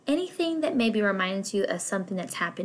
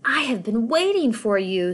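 deep octopus voice; 5 dB louder than usual. Acted. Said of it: "said the octopus with a deep voice".

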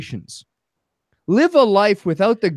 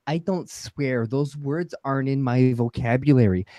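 mock non-swearer; 6 semitones lower than usual. Podcast guest mimicking people who never swear, mock-prim. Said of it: "I don't know why I'm choosing this voice".

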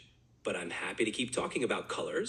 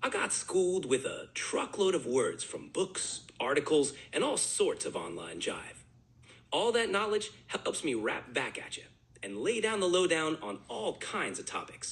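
laid-back slangy jive; jive talk. Shown as a demonstration. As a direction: talk it like old-school jive. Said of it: "but now in jive".

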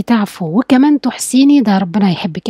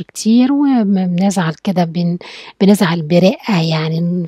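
gentle upset; 3 semitones lower, slower than usual. Shown as a demonstration. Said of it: "بنتكلم برقة وبصوت واطي".

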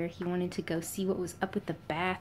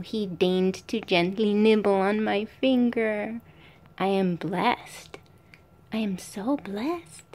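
mock reverence; 3 dB louder, slower than usual. Real, not acted. Mock awe at being nibbled.

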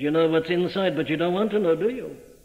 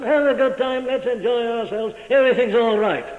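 carefree mock; 5 semitones higher, 3 dB louder than usual. Carefree unbeliever voiced.

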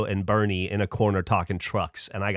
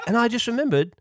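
imitating his friend; 11 semitones higher than usual. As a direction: quote the friend's sudden relief in a raised put-on voice. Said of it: "I can't do an impression of you".

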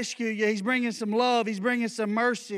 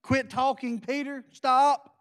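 stern command; slower than usual. Retold or imitated. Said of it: "he basically said".

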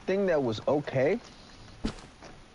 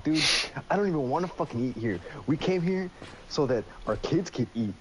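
imitating the dad's rant, pitched higher, last line much louder; retold dad yelling at the fast food manager, mock furious rant; 4 semitones higher, 5 dB louder than usual. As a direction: act out the dad tearing into the manager.

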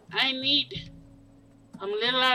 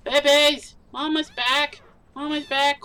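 calling out; 2 semitones higher, 5 dB louder than usual. Pretend. Mama calls her babies home.

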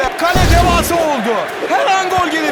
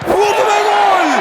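screaming football commentator; 5 semitones higher than usual. Acted. Goal call in football game.

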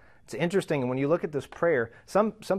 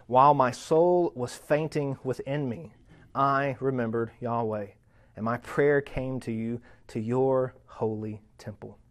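slow, measured prayer settling down at the close; scripture reading. Acted. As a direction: read the verse with deliberate pauses.

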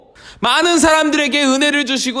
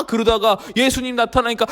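usual speaking voice

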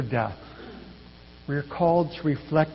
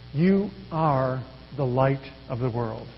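slow, softer, reassuring promise; gentle promise; 4 semitones lower, 5 dB quieter, slower than usual. Shown as a demonstration. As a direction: offer it as a promise, not an order. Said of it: "It's a promise".

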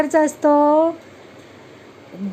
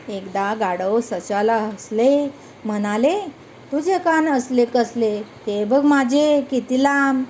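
poem recitation. Acted. Teacher repeating the poem lines for the children, sing-song.

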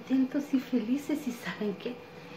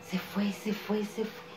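growing softer until almost silent; fading away; 6 dB quieter than usual. Acted. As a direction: let the words drift off like a passing breeze. Wind leaves the scene.

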